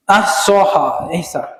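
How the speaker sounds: ধীরে টেনে টেনে আহসাহা, তারপর এহসা; এহসা শব্দটা ধীরে ভেঙে ভেঙে উচ্চারণ করুন. Shown as a demonstration. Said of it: "শব্দটা আছে এহসা". (ধীরে এহসা শব্দটা উচ্চারণ করে দেখানো)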